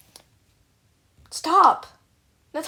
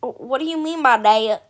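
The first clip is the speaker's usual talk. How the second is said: drawled Southern accent on a question; 2 semitones lower than usual. Shown as a demonstration. Streamer mimicking the clip's sister, Southern accent. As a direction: ask it with a Southern twang. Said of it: "I can do a southern accent".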